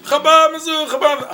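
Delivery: mock chant, loud and high; imitated yelling. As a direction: bellow it like a crazed visitor. Visitor yelling slogan, imitated.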